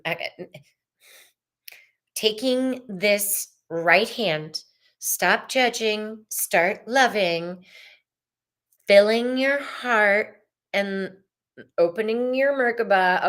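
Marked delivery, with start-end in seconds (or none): 2.2-13.2 slow guiding voice. Shown as a demonstration. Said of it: "guiding a gesture slowly".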